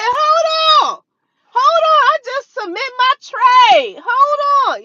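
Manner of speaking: high, loud, urgent pleading to wait; frantic high hold on. Retold or imitated. Trader at desk panicking over falling market, frantic high voice. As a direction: rush the words out, frantic to get the trade in.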